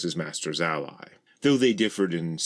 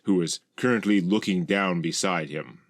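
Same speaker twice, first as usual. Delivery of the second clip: ordinary delivery, nothing marked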